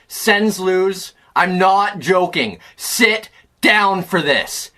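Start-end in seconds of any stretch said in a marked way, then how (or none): 2.8-4.7 slow, weighty warning; deliberate, word-by-word delivery; grave warning. Real, not acted. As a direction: space out SIT and DOWN before bad news.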